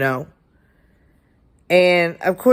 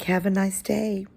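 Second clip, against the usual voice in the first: softer, smiling, sugary goodbye; sweet smiling farewell; 4 semitones higher, 5 dB quieter than usual. Retold or imitated. Teacher dismissing angry boy with a sweet smile. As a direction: kill him with kindness. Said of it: "I was smiling".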